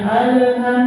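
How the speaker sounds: "alham" with an echo after the l; bounced l. Shown as a demonstration. Teacher showing a wrong reading, bounced lam. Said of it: "berarti mantul".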